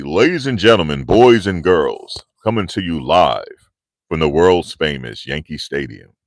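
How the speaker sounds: imitating the old Yankee Stadium announcer. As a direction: boom it across the stadium. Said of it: "the guy that used to be at Yankee Stadium".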